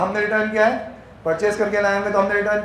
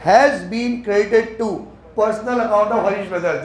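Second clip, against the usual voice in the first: very slow, deliberate reading aloud; slow dictation; much slower than usual. Shown as a demonstration. Teacher reading the accounting question to the class, very slowly. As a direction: read the question out word by word.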